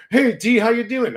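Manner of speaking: high, loud crone greeting; hammed-up old-lady voice; old woman impression. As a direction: call out as a comic old woman. Voices succubus turned old woman.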